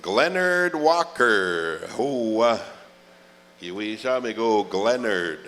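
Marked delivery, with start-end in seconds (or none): 0.0-1.9 drawn-out name call. Acted. Announcer slowly calling a dancer up to the stage. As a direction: stretch "Glenard Walker" out slow, like an MC summoning someone. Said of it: "We're looking for Glenard Walker".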